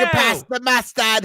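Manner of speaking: high, loud mock British accent; bad British accent. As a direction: call it out in a hammed-up British voice. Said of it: "it's a really bad accent".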